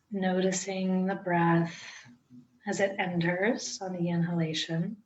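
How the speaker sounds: unhurried meditation guide with long pauses; guided meditation. Acted. Teacher guiding listeners into breath-centred meditation, calm guided-meditation delivery. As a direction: ease each instruction out, leaving space to breathe.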